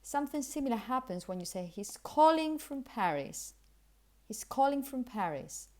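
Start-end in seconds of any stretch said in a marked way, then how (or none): 1.7-5.7 "calling" and "Paris" stressed, "from" weak; key words stressed. Shown as a demonstration. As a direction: lean on "calling", slip lightly over "from". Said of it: "understand really is calling and Paris".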